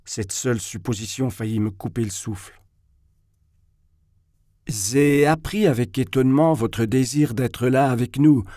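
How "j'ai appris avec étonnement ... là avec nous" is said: lisping, sing-song whisper; zézaiement susurré. Acted. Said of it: "susurrant avec un cheveu sur la langue". (voix susurrante avec un cheveu sur la langue)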